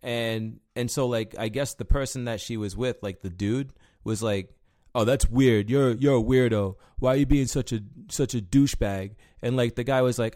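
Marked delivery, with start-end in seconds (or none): 4.9-9.1 annoyed scolding. Retold or imitated. Dude scolding a creep.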